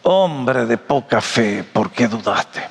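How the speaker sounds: low, slow, gentle rebuke; affectionate reproach. Acted. Jesus to doubting Pedro, affectionate reproach. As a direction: chide tenderly, low and unhurried. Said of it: "una palabra de reprensión cariñoso".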